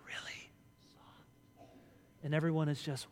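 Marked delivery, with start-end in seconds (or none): 0.0-1.7 fading into a whisper; mock preacher's hush; soft whisper. Shown as a demonstration. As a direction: drop to nearly nothing. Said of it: "I get really, really soft".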